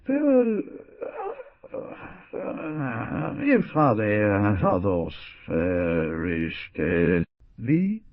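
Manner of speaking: a daughter pleading with her father, tearful; supplicating voice. A narrator's reading. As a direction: beg him through tears. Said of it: "she said in a supplicating voice".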